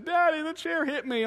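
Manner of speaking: high-pitched imitation of a hurt little boy; toddler's complaint. Two-year-old telling daddy the chair hit him, whining. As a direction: whine it like a small child.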